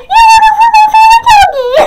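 high, fast, wailing yell; upset shout. Retold or imitated. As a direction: shriek it in mock despair. Distress at dog run over.

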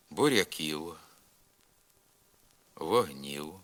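"Буряків" and "вогнів" end in a short, non-syllabic u glide, like English w; кінцеве в у "Буряків", "вогнів" як нескладовий ў. Shown as a demonstration. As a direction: close "Буряків" and "вогнів" with a light ў glide, never a buzzing v. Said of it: "вимовляємо нескладовий У на кінці слова".

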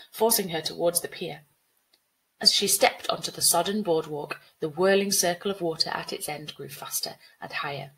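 measured storybook reading; story narration. A narrator's reading. Teacher reading a flood story to pupils, measured narration. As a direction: narrate the flood scene evenly.

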